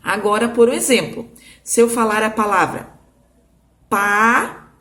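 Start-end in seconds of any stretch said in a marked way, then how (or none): 1.6-4.7 pato said in two clear beats, pa-to; careful classroom model of pato; clear demo word. Shown as a demonstration. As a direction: open the mouth twice for pato. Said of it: "preste atenção na minha boca".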